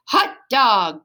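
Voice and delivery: dog cheering the speeding pup; excited bark. Acted. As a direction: bark it out thrilled. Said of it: "barked Nutsy".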